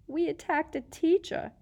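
rising panic; whimpering. A narrator's reading. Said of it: "Hermione whimpered".

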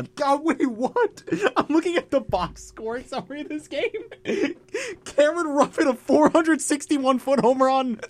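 excited. Real, not acted. Laughing disbelief at box score.

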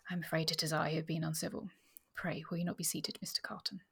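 soft, gently conceding apology; engaging honesty. A narrator's reading. Miss Witchwood owning her incivility and offering a seat, engaging honesty. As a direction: soften into a frank, polite invitation. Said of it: "with engaging honesty".

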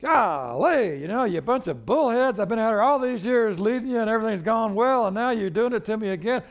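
high, loud, fed-up rant; exasperated outburst. Retold or imitated. Moses fed up with the grumbling people, loud exasperated rant. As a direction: vent like a leader at the end of his rope. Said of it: "him just being frustrated and exasperated".

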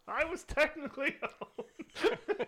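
mock cameo voice, high and slow; lightly hammed-up squeal breaking into a laugh; Hugh Laurie. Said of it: "just Hugh Laurie shows up".

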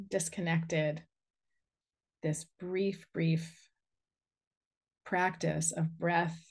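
unhurried guiding voice with long pauses; guided meditation. Real, not acted. Inviting listeners to send a cord into the earth, guided meditation. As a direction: lead them gently through grounding, phrase by phrase.

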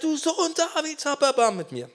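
high, strained mock shout; acted cry. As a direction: cry out high without full volume. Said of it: "Und er schreit".

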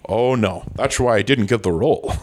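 lightly slurred Scottish star, s turning to sh; comic impression with slushy s sounds; Sean Connery. Promising co-hosts a comeback, hammed-up Connery impression. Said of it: "All right, Mister Connery".

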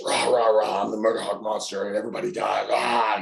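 mild mock monster roar; loud strong promo. Wrestler showing how he played to Japanese cameras, loud and strong. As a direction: imitate a loud post-match wrestling promo. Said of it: "just very loud, very strong".

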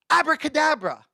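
high, loud magician's incantation; hammed-up stage conjurer; mock magician. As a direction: cast the spell with showy force. Mock magic word Jesus didn't say.

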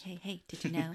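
far, silly quiz-show voice; goofy trivia voice. Retold or imitated. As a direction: tease it like a trivia host. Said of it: "That's how I always read it".

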